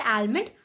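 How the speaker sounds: almond with a sounded l. Shown as a demonstration. Teacher showing the wrong almond.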